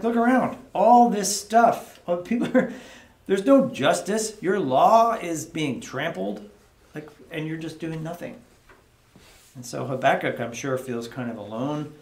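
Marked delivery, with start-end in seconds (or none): 0.0-8.4 higher and louder, indignant and slowed; angry complaint. Retold or imitated. Habakkuk venting to God about trampled law, angry and indignant. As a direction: rail at God about the injustice. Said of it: "but he's also angry".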